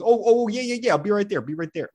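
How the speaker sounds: a light mock Chicago accent, calling out "be right there". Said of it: "someone's calling into the room".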